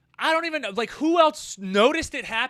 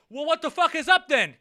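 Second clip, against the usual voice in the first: loud, higher tough-guy challenge; mock challenge; 6 semitones higher, 6 dB louder than usual. Driver stepping out to fight, hammed-up loud challenge. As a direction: square up out of the car.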